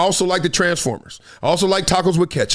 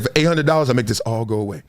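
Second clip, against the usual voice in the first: lowered, hushed hustler offer; low shady guy voice; 6 semitones lower, faster than usual. Retold or imitated. Driver quotes the guy naming his price, low and sly. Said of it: "he said".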